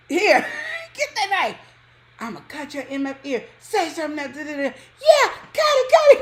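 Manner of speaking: high, loud, wild egging on; frenzied urging. Retold or imitated. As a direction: hype him up to cut. Urging boyfriend with knife.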